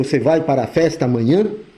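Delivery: ordinary talk, nothing marked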